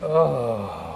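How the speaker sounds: low, drawn-out mock groan; audience groan. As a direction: groan like a disapproving crowd. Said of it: "the whole audience went".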